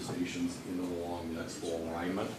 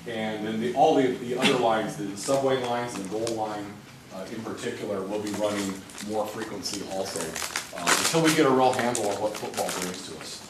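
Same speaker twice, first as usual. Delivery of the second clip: speaking louder. Real, not acted. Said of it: "Can you speak a little louder?".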